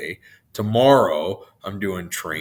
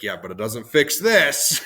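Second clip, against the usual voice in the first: laughing; 3 semitones higher, 5 dB louder than usual. Retold or imitated. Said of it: "And I was like".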